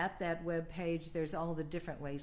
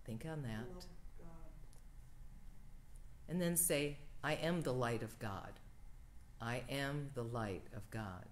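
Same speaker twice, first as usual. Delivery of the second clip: prayer; 2 semitones lower than usual. Acted. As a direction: give each line room to settle. Prayer of protection.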